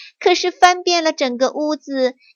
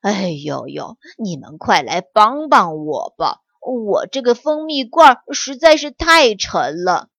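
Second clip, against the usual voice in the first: lower, puffing little bear straining under a load; panting; 3 semitones lower than usual. Acted. Little bear begging for help with the honey pot, panting. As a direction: groan it out as if carrying something heavy. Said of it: "小熊气喘吁吁地说".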